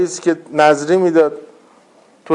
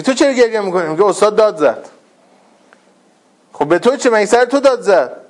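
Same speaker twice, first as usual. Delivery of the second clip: higher-pitched acted back-and-forth; puzzled challenge; 5 semitones higher than usual. Classmate questions a student crying over the teacher's shout, puzzled challenge. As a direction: challenge them in mildly exasperated disbelief.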